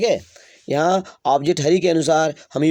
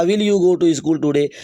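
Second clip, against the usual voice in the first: slow dictation; much slower than usual. Shown as a demonstration. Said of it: "dictating question".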